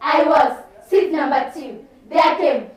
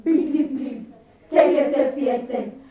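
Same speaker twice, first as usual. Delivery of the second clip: soft, understated pleading; lightly voiced boy coaxing softly; coaxing suitor; 3 semitones lower, 4 dB quieter than usual. Plays boy coaxing girl by message.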